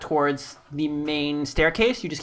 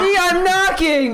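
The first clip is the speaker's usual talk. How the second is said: put-on old man voice; 10 semitones higher than usual. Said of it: "the parent style knock".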